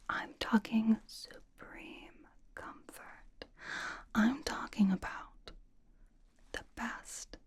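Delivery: slow hush fading into a whisper; reverent build-up. Acted. Host promising supreme comfort, slow reverent whisper. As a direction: savour every word, sinking to a whisper.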